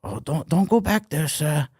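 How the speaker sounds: a hint of an Asian guy's accent. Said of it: "the Asian guy was like".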